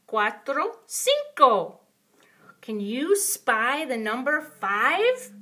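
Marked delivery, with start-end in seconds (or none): 2.6-5.3 playful whisper. Acted. Teacher's playful hush question.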